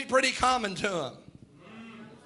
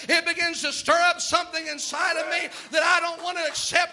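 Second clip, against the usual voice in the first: put-on young David speaking up; 3 semitones higher than usual. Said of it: "here steps a little boy to the front line and says".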